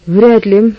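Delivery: words pushed through a clenched jaw; through gritted teeth. Acted. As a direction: grit your teeth and squeeze it out. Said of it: "процедила она сквозь стиснутые зубы".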